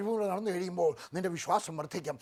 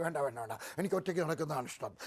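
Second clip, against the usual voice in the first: gentle refusal; 4 semitones lower, 6 dB quieter than usual. Retold or imitated. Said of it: "brother എന്തൊക്കെ ചോദിച്ചു".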